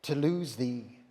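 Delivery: steady, accepting, gently resolved; calm mood. Acted. Adam turns calmly to Eve, accepting her fate as his own. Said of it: "thus in calm mood his words to Eve he turned".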